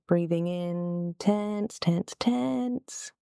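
building tension. Real, not acted. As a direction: coach a held squeeze, pitch rising step by step. Coaching glute squeeze on inhale.

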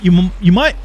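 badly faked Irish accent that comes out British; failed Irish accent. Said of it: "You sound pretty British to me".

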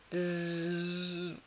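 long buzzing "zzz"; mock snore. A narrator's reading. The big bear asleep in the box, mock snore. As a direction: voice a sleeper's buzz.

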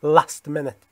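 Manchester-style "last minute" with short a; slow northern English, Manchester vowels; Mancunian accent demo. Shown as a demonstration. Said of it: "یه منچستری به این حالت".

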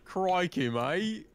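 Australian impression. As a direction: put on a cartoon Australian voice. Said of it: "not a very nice Australian impression".

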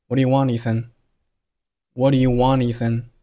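"want, Ethan" run together as "wanethan", no pause; "want" flowing straight into "Ethan" with no break; linked want Ethan. Shown as a demonstration. Teacher demonstrating the linked line for learners. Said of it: "读成了".

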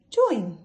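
teacher blends Join for the class; blended word. Shown as a demonstration. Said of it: "So let's sound it out".

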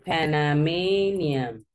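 Panamanian drawn out slowly syllable by syllable; teacher pronouncing it for students; slow model word. Shown as a demonstration. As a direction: model the new word for the class. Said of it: "el de Panamá es Panamanian".

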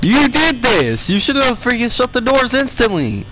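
high, indignant scolding; exasperated playful telling-off; mock blame. Blames other player in game.

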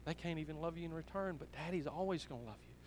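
soft, tender voice of a moved father; moved to tears. Retold or imitated. Father comforting his daughter about the pearls, softly moved. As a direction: gently reassure her, understated emotion. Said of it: "and he was even crying".

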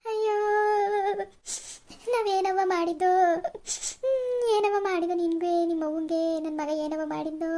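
hammed-up wailing lament; a put-on sob story about lost family honour; fake lament. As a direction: play-act a wronged mother's weepy complaint. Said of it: "ನಾಟಕ ಆಡ್ತೀನಿ".

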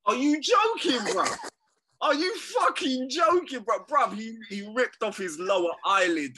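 loud, high-pitched disbelief; indignant, pitch leaping on each question; incredulous outburst. Real, not acted. Fan outraged at his co-host over an eye poke, incredulous.

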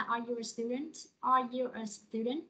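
rising yes-no tune, slowly at the end; rising question tune. Shown as a demonstration. Teacher models a yes-no question, rising tune. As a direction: lift the end of Are you a student like a question. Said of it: "Câu hỏi là".

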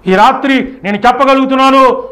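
ordinary delivery

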